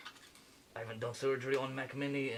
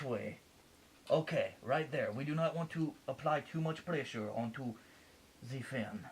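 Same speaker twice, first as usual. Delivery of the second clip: mock French surgeon accent. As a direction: guide the delicate step like a French surgeon. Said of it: "Sorry for the accent".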